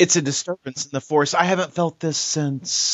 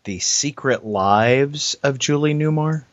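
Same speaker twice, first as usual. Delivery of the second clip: incredulous; slower than usual. Real, not acted. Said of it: "echoing the title in disbelief".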